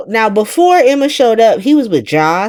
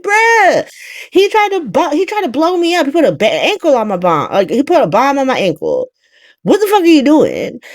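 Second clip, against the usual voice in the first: freaking out; 3 semitones higher than usual. Retold or imitated. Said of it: "now she freaking out even more".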